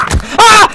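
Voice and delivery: sudden high loud scream; real fright scream; startled scream. Real, not acted. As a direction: scream from the jump scare. Jump scare in the game.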